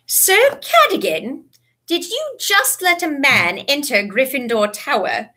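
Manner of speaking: slow, measured stern questioning. A narrator's reading. McGonagall questions portrait.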